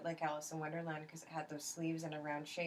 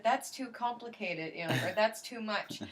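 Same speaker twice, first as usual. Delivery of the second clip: mock exasperated rant; 5 semitones higher, 5 dB louder than usual. Retelling her rant to the shop about dresses, higher and louder. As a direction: complain like a frustrated little girl.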